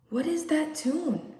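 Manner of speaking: uneasy question. Acted. Lovers wake to humming.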